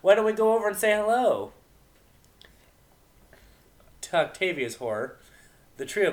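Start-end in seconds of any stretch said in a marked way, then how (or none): 0.0-1.5 high, loud playful mare; teasing Vinyl. Acted. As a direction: egg them on brightly.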